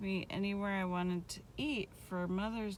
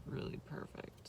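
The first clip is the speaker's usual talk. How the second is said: whispering; 7 dB quieter than usual. Real, not acted. Praising the naan.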